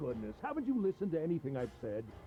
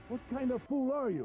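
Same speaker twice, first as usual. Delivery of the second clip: mocking taunt; 7 semitones higher than usual. Captor taunts the captive.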